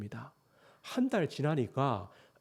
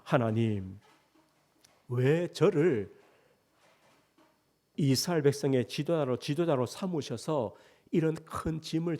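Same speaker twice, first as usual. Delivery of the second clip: Moses complaining. Retold or imitated. Moses tells God he cannot go on, mildly weary and pleading. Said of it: "지도자 모세의 불평입니다".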